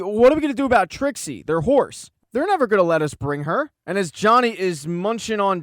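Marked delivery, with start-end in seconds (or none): 0.0-3.7 mild mock yell, higher and a bit louder; half-hearted imitation of a panicked yell; retold yell. Doctor Singh fretting to Ronnie about their horse, mildly yelled retelling. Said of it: "He yells at Ronnie".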